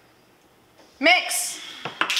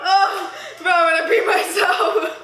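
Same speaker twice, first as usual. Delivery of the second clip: laughing; 2 semitones higher than usual. Real, not acted. Cracking up over whipped cream.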